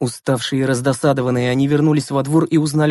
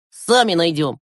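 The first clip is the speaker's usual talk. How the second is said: put-on firm, slightly raised boy voice; decisive; 4 semitones higher than usual. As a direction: settle the matter with resolve. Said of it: "решительно произнёс Глеб".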